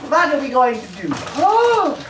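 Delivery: playful character voice. Pretend. Put-on character voice.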